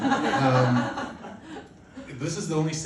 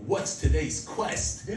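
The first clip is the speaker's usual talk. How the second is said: slow, drawn-out quest announcement; lightly acted hero greeting a new quest; adventure-game hero; 3 semitones higher, much slower than usual. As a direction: stretch it out like a mock adventurer. Acts eager game hero each morning.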